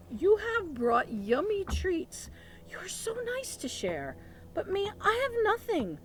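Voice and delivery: high, slow, mopey bear lament; moaning bear. Acted. Bear moaning to friends that he has nothing, high and slow. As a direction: moan it out like a sad little bear. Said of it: "sighs and he moans".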